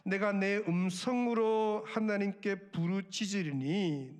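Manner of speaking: measured verse reading; slow scripture reading. Shown as a demonstration. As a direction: read the verse slowly, stressing 음성으로. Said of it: "보시면".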